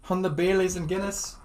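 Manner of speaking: light Irish lilt, rising on Baileys; Irish accent. Pretend. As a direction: toast it like a Dublin drinker. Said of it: "we're in full Irish".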